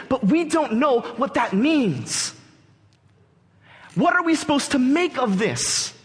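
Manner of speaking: impassioned preaching. Acted. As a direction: preach it with wonder and urgency. Preaches with rising intensity.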